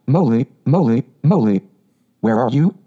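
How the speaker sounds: bright, carrying call through the woods; cheerful calling out. Acted. Rat searching the dark wood for Mole, cheerful calling out. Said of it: "calling out cheerfully".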